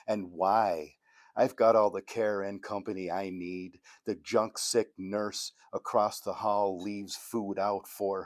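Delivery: measured poem recital with punched line openings; poetry reading. Acted. Poet reading a Bukowski-style poodle poem to an audience, poetry reading. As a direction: read the poem out in measured phrases. Reads own poem aloud.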